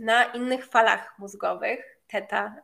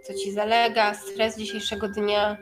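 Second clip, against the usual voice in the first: guided meditation. Acted. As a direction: ease them into relaxation. Leads a meditation.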